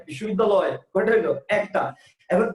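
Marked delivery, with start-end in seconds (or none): 0.0-0.8 বিশ্ববিদ্যালয় run together in a single quick breath; বিশ্ববিদ্যালয় in one smooth breath. Shown as a demonstration. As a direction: say বিশ্ববিদ্যালয় all at once. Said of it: "একবারে".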